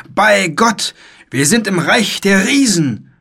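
high-pitched theatrical cry of amazement; knight's exclamation. A narrator's reading. Knight finding himself among giants, a high astonished call. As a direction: proclaim it high and loud, astounded. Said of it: "rief der Ritter".

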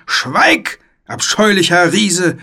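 high, imperious bellow; knight's roar. A narrator's reading. Knight defying the giant boy, roaring high and haughty. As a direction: silence the foe with a loud theatrical order. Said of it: "brüllte der Ritter".

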